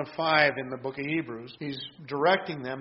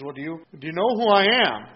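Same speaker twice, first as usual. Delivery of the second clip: a self-important, louder retold demand; lightly mock the governor flaunting his status; pulling rank; 6 dB louder than usual. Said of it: "Pulling a little rank here".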